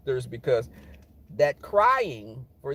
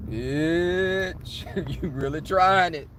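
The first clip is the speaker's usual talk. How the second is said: inner queen; 4 semitones higher than usual. Acted. Inner queen warning a coworker off, sassy. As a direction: read them like an offended queen. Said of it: "the inner queen would come out in me".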